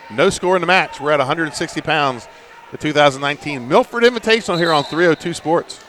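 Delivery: measured play-by-play recap; sports announcer. Real, not acted. Announcer tells listeners score, weight and event, sports announcer. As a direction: give the score and ident like a broadcaster.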